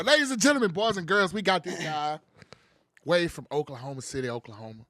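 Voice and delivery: loud, high ring-announcer build; hype man intro. Acted. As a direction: pump the crowd like a boxing intro. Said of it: "the best hype man in this damn country".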